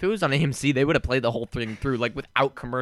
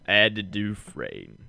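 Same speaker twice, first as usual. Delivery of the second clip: slow, lower narrator impression; Morgan Freeman; 5 semitones lower, slower than usual. Retrying the impression after being called too white, slow narrator. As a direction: stretch the name in a put-on deep voice. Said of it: "It's too white".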